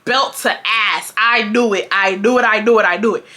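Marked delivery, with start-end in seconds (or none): 0.0-1.1 slow deliberate. Shown as a demonstration. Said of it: "B T A".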